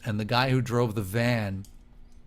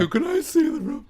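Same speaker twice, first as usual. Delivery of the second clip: high, fast, gushing tourist voice; mock American tourist; 4 dB louder, faster than usual. Old man mocking eager American tourists, high and fast. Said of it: "these Americans with their T-shirts".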